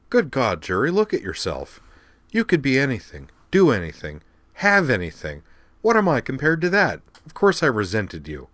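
loud, high, heated protest; friend's worked-up outburst; exasperated. Acted. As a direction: throw it at her in frustration.

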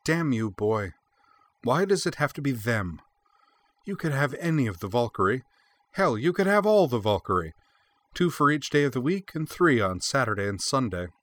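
exasperated, high-pitched outburst; flashing temper. A narrator's reading. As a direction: scold him with rising indignation, pitch up. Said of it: "Freya's eyes flashed more openly now".

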